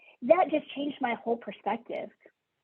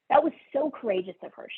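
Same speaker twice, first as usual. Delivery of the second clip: That was so courageous of her, rushed out higher and faster; emphatic fast repeat; 4 semitones higher, faster than usual. Shown as a demonstration. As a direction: repeat it quickly with rising admiration.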